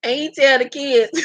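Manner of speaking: lightly slurred bad-teeth impression; Jewels. Host retelling the kids scene, mock slurred voice. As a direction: imitate his mushy speech, about to crack up. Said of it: "I gotta do my Jewels voice".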